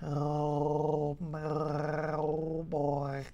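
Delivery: words spoken through a gargle; while gargling. Shown as a demonstration. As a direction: say it gargling, like underwater. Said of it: "speak while doing that and sound like you're underwater".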